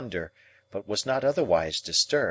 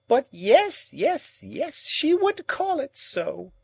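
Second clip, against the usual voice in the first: put-on high, slow bitter old woman's voice; bitter exclamation; slower than usual. A narrator's reading. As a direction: answer yourself bitterly. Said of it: "exclaimed Miss Havisham".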